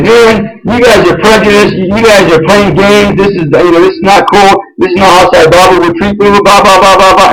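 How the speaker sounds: mild mock tirade trailing into blahs; retold angry outburst. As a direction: reenact going off on someone, accusing. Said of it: "I, I, I went off".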